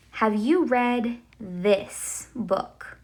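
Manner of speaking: slow, careful example sentence; slow demo question. Shown as a demonstration. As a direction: spell it out slowly for the class. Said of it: "I would say".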